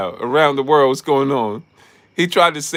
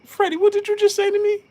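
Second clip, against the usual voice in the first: mock Robert Garcia. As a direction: drag out the challenge in a high put-on voice. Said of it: "you remember that video?".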